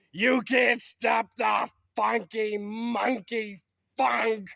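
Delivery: drawn-out party shout; slow hype shout. Acted. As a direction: belt it like a hype man. Hyped demolition taunt.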